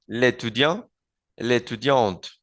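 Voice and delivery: l'étudiant as one word, no vowel before étudiant; l'étudiante with the final T sounded; elision demo. Shown as a demonstration. Teacher showing elision in l'étudiant and l'étudiante. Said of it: "se aplica lo que se llama elision".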